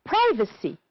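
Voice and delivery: Privacy with PRI stressed; stress on first syllable. Shown as a demonstration. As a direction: lean on the start of Privacy. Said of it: "The stressed syllable is in bold type".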